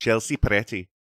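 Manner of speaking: put-on Scottish accent. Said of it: "that's how I get into it".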